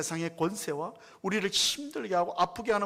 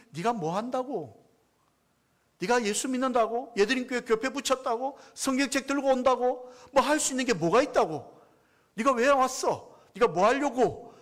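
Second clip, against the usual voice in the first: mocking devil; 4 semitones higher than usual. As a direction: taunt the believer, belittling every step. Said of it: "조롱하고 비아냥거리는".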